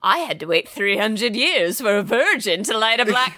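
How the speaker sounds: hammed-up period-drama complaint; mock scolding sister. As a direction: play a waiting sister's comic reproach. Mocks the spirit sister's old speech.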